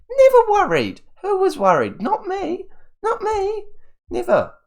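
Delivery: high, falsetto mock nonchalance; mock denial. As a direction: squeak it like you never cared.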